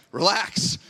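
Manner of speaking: mock-exasperated telling-off of a fussing husband; imitated exasperation. Wife's exasperated reply to panicking husband.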